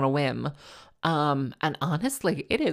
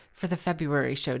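vocal fry. Shown as a demonstration. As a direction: drop into creaky vocal fry on "show". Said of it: "Do I sound like Barack Obama when I have my little vocal fry?".

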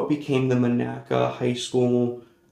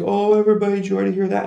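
louder, higher sneering call to the class; a hint of a bully showing off; mock-gleeful taunt to everyone; mocking announcement; 8 semitones higher, 5 dB louder, much faster than usual.

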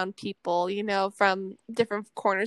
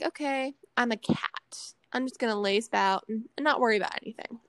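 softly spoken, relaxed cat attitude; laid-back introvert; 3 dB quieter than usual. Acted. Introvert likened to a lazy cat, laid-back and soft. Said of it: "Introverts, they're just more like".

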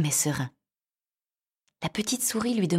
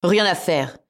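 to himself; 6 dB louder, slower than usual. Acted. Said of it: "se dit-il".

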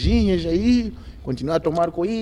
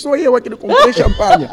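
loud, high retold complaint breaking into laughter; laughing retelling; 7 dB louder than usual. Quoting the friend who bought the champagne, laughing. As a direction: quote the friend, cracking up loudly.

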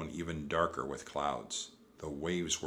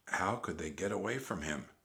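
ordinary delivery, nothing marked

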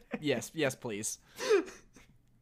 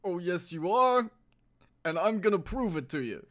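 gargling Stallone voice; 2 semitones higher than usual. Acted. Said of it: "gargling marbles".

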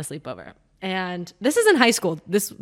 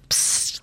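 whispered psst; 6 dB quieter than usual. Retold or imitated. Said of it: "Like, whisper yelling".

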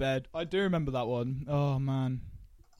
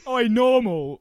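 higher, louder shout of a nickname; mock heckling call; 6 semitones higher, 7 dB louder, slower than usual. Host turning the tall joke on average friends, mock heckling call.

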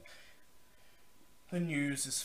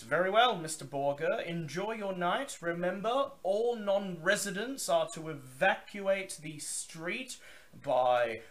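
higher, louder gruff gatekeeper; gruff male voice; 9 semitones higher, 6 dB louder than usual. Acted. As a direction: bark it like a gruff guard. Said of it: "the voice says".

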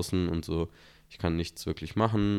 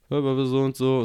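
higher, louder robotic phone voice; mock robot announcement; computer voice; 7 semitones higher, 5 dB louder than usual. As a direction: play the automated caller. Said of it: "so eine Computerstimme".

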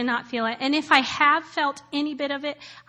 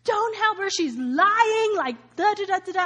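higher, mocking imitation of a shouting agent; higher caricature of a hostile agent; mock airport agent yell; 8 semitones higher than usual. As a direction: impersonate the rude agent shouting. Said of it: "she yells across the airport".

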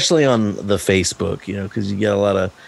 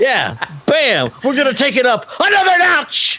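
Emeril impression; 13 semitones higher than usual. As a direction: shout it like a TV chef. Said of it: "you had to watch Emeril".

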